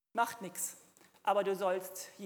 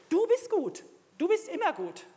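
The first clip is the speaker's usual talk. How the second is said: high, loud proclamation of faith; fervent declaration; 8 semitones higher, 7 dB louder than usual. Shown as a demonstration. Preacher showing believers how to praise God, fervent declaration. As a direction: cry it out with full conviction.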